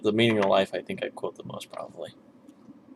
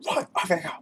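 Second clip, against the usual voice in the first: higher but softer, half-hearted "Right, off you go"; softer sergeant quote; 5 semitones higher, 5 dB quieter, faster than usual. Retold or imitated. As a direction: toss off the sergeant line quietly to yourself. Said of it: "quoting some of those, those movies".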